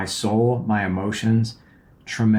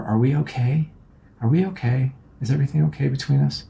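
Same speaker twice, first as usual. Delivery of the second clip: higher, nervous pleading; anxious check-in; 4 semitones higher than usual. Retold or imitated. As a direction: ask as if scared of the answer. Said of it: "anxious attachment".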